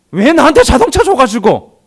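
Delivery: high, loud whiny blame; mock complaint. Preacher voicing a believer blaming God, mock complaint.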